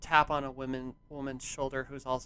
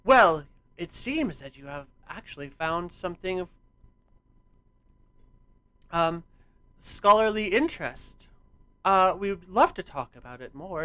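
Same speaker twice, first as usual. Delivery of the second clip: louder, higher, courteous invitation; smiling welcome; 5 semitones higher, 10 dB louder than usual. Acted. Scholar invites the visitors to talk, smiling and courteous. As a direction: greet them with scholarly politeness. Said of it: "smile at you and say".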